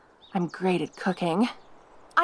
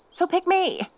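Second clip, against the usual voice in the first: pleading; 11 semitones higher than usual. Acted. Rival girls competing for human.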